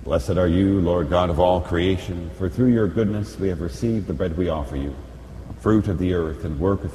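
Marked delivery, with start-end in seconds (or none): none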